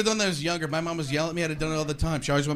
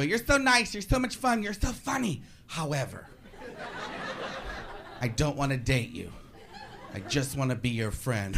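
put-on sweet girl; 4 semitones lower, 5 dB quieter than usual. Girl rejecting him.

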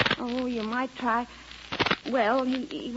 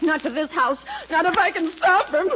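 angry; 5 semitones higher, 5 dB louder than usual. Acted. Wife rising in anger.

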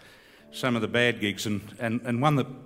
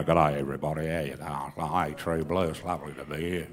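much lower, broad country-singer greeting; country singer impression; 9 semitones lower, 5 dB quieter than usual. Comedian greeting the crowd as a country singer, much lower. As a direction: put on the low country-singer voice. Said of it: "the singer size it a little bit more".

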